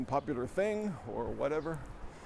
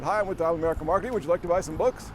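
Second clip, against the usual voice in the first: telemarketer pitch; 3 semitones higher, 5 dB louder, faster than usual. Retold or imitated.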